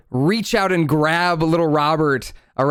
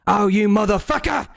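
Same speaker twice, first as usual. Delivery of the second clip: higher, cornered curse; angry outburst; 8 semitones higher than usual. Acted. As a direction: spit it out like a trapped little critter. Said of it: "he says".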